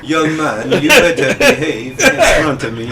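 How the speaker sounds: mock-scolding valley-girl sister. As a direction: lightly imitate a bossy valley girl, a laugh creeping in. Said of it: "like a valley girl?".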